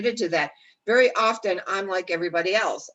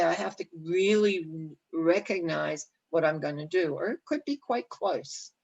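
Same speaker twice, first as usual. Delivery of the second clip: guided visualization. Acted. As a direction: ease the listener step by step toward their goal.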